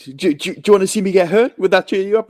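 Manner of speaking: high-pitched imitated coaxing; lightly acted dad cheering up a kid; coaxing offer. Sandler coaxing crying kid, acted.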